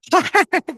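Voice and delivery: high burst of laughter; sudden unrestrained cackle; real laughing fit; wild laugh. Real, not acted. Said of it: "खतरनाक हंस रही".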